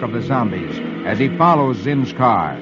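measured comic-strip storytelling; old-time radio storyteller; dramatic story narration. A narrator's reading. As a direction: narrate the adventure with slow suspense.

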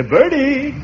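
high, carrying call. Acted. Uncle summoning Bertie, calling out. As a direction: holler for someone out of the room.

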